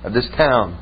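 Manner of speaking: low, ominous claim; menacing stranger. Retold or imitated. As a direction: drop the voice low and threatening.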